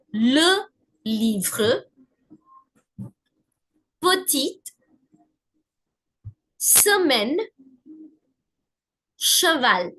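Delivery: le, petite, semaine, cheval with "uh" for E; French schwa demo. Shown as a demonstration. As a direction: model words with "uh": luh, puh-teet, suh-men, shuh-val. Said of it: "The sound is a standard le".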